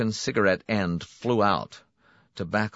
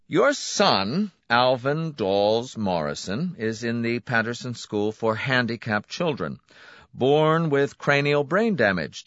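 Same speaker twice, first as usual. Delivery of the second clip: higher, louder voice for the suave clinic man; a smooth salesman pleased with himself; brisk, confident host welcoming a client; Donati's voice; 5 semitones higher, 5 dB louder than usual. A narrator's reading. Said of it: "Donati recites the file".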